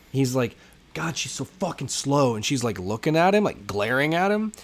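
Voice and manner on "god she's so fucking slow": put-on angry grumble, barely held in, near yelling. Retelling a gambler complaining about the dealer: imitating a man about to yell. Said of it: "borderline about to yell at her".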